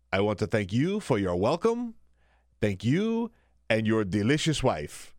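bad French accent. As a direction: put on a clumsy French accent that drifts toward Borat. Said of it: "my French accent sounds kinda like Borat".

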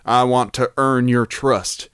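put-on reading in a Texas accent. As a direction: keep the Texas accent going. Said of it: "I went too deep into Texas".

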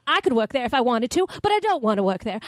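lightly voiced old-movie Southern belle; Southern accent. Actress playing an old-movie heroine, mild Southern accent. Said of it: "no, that's more Southern".

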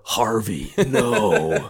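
drawn-out dramatic plea; hammed-up cry of dismay, long vowels; anguished Batman. Guest reprising Batman's plea to Harvey, anguished. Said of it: "I'll do my very best to im-, impersonate this moment".

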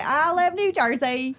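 slow, high, drawn-out New York; mock New York accent. Joking along about her accent, mock New York accent. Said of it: "That's my New York accent".

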